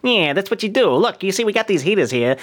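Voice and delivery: gangster talking out the side of the mouth; out of mouth corner. Pretend. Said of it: "talking out the side of your mouth like you're some kind of gangster".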